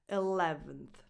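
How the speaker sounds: "Eleventh" ending in weak unth; schwa last vowel. Shown as a demonstration. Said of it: "the last vowel is a schwa".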